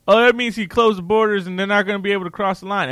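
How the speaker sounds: mocking Trump fans with a Southern US accent; southern inflection. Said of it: "why do I do it with a southern inflection".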